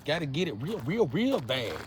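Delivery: mock woman's voice. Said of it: "they turn in that".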